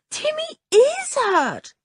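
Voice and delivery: high and slow, with a touch of tears; girl repeating to her father, near tears; tearful insistence. Acted. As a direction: plead it again, close to crying. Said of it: "said George with tears in her voice".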